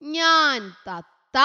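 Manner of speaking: very slow, drawn-out ഞാൻ തത്ത; slow recitation. Shown as a demonstration. Teacher speaking as the parrot for the class. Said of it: "തത്ത എങ്ങനെയാ പറയാ".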